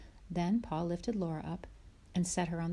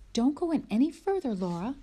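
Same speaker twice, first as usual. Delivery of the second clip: higher, louder call; 7 semitones higher, 6 dB louder than usual. Acted. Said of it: "said Ma".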